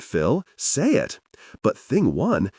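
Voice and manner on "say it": high eager urging; excited urging. Acted. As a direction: egg him on, pitch up. Group urging Phil to speak.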